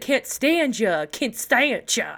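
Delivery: "can't stand ya" sounded out as one name; Constantia as can't stand ya. Retold or imitated. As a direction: stretch out "can't stand ya" to teach the pronunciation. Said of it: "it's pronounced like".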